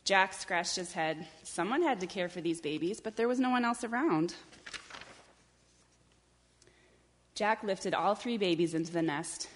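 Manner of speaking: measured picture-book reading; story narration. A narrator's reading. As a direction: read it unhurriedly to young children. Reads a picture book aloud.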